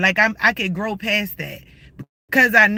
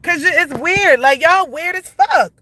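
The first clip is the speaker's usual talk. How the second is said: heated yelling; 5 semitones higher than usual. Real, not acted. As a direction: tear into them, fed up. Keeps yelling at harassers.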